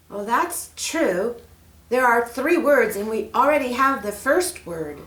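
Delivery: put-on girl Mary. Mary asks the snake for help, eager. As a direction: ask sweetly and eagerly.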